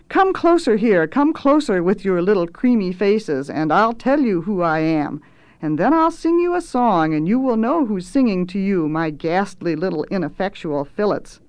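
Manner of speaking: lightly voiced wheedling cook; oily, lordly invitation; coaxing chef. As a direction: draw them in with pompous relish. Swelter coaxes the apprentices.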